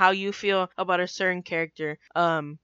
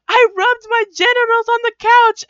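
high, loud yelled confession; hammed-up public outburst; mock yell; 13 semitones higher, 7 dB louder than usual. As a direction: imitate someone blurting it out at full volume. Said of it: "he yells out".

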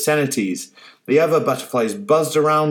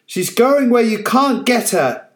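much higher, loud and final; firm declaration; 10 semitones higher, 4 dB louder than usual. Acted. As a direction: tell him he has lost. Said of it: "Beth finished".

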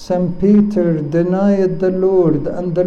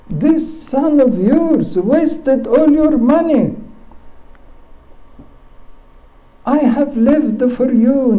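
bitter elder son; 5 semitones higher than usual. Acted. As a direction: hurl the grievance at his father. Elder son complains to father.

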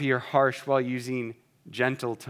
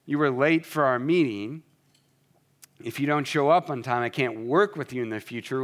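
accusing. Shown as a demonstration. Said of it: "instead of saying".

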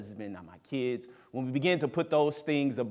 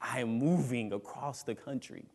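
mock panic; 6 dB quieter than usual. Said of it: "Normally, I would be freaking out".

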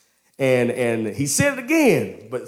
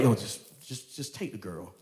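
mock resignation; 2 semitones lower, 9 dB quieter than usual. Sarah reluctantly offering Hagar to Abram.

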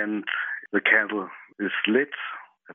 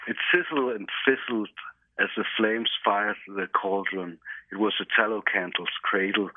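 story reading. Acted. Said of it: "Tell me how The Tallow Candle actually begins".

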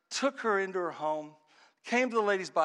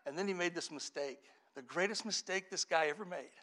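ordinary delivery

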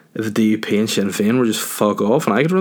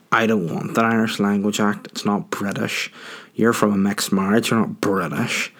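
lightly voiced sour politician; mock a dour refusal, slowing on "not British"; Arlene Foster. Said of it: "Arlene would just be like".

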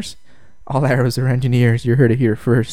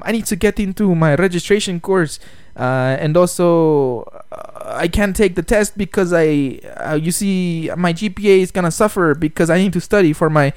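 mock Arab accent; 4 semitones higher than usual. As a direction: put on a halting Arab student's accent. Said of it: "it's kinda similar to that accent".

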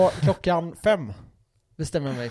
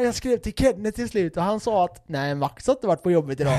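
lightly imitated angry girlfriend, starting high; mild mock accusation in a raised pitch; 4 semitones higher than usual. Girlfriend confronting boyfriend over his lie, mildly mock-angry. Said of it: "Så hon var så jävla arg".

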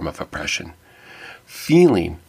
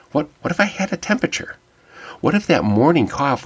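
high, fast mock-panicked worrying; retold panic; 8 semitones higher than usual. Donor terrified of failing the screening, acting out panic. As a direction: fret it quickly in a raised pitch. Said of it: "It was hard not to get panicked".

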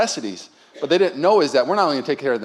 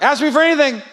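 voice of the Lord; 7 dB louder than usual. Retold or imitated. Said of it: "the Lord's like".

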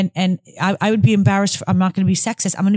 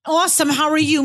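curt fake reply; 5 semitones higher than usual. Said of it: "I'm not gonna give you any".

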